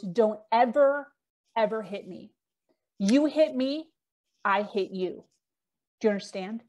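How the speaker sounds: measured warning, broken by pauses; retold threat. Boyfriend pinning her against the wall, threatening. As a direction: lay down a menacing warning, word by word.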